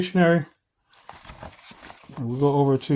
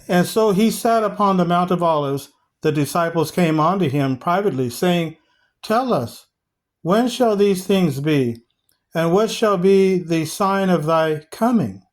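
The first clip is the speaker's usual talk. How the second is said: raised, emphatic Bible-reading voice; scripture reading; 3 semitones higher than usual. Acted. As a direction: read the verse out to the congregation, slowing on the questions. Reads scripture aloud to congregation.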